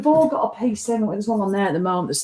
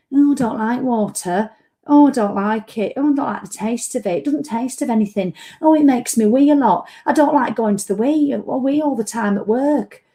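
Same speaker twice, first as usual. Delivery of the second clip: whiny mockery; 2 semitones higher than usual. Mocking water-haters to her viewers, whiny. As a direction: moan each excuse like a sulky client.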